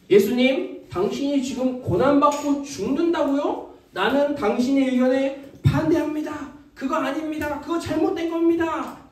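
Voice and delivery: declarative protest, rising as it builds; firm objection. Acted. Peter opposing what Jesus said, firmly objecting. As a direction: object formally and without yielding. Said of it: "예수님의 말에 거부하고".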